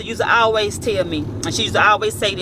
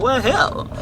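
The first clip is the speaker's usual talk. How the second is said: uncle's voice; 3 semitones higher than usual. Retold or imitated. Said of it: "That's how my uncle talk".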